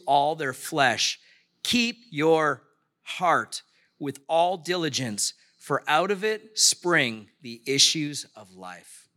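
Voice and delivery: slow, measured reading from the pulpit; scripture reading. Acted. Pastor reading Proverbs to the church, slow and measured. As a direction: lay each phrase down deliberately.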